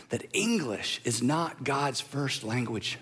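quiet, amused, chuckling through it; laughing softly. Real, not acted. Pastor chuckling to the church at his own slip. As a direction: laugh as the realization lands.

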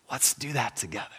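very soft, hushed invitation; whisper. Acted. God leaning over us with an invitation, soft whisper. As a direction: whisper it as a gentle secret. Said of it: "he whispers".

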